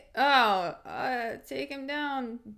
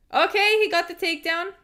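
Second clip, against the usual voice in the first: excited call; 8 semitones higher, 7 dB louder than usual. Real, not acted. Calling out the takedown.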